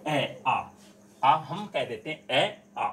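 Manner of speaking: ए आ said loosely as the careless form; wrong way, flattened. Shown as a demonstration. Teacher demonstrating the wrong ए आ. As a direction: say ए आ the lazy, incorrect way. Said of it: "तो ये क्या है कि शुद्ध नहीं होता है".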